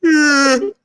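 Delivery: squeaky crying laugh; high wheezing laugh. Real, not acted. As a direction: laugh helplessly, high and thin. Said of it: "Just act like you're yawning".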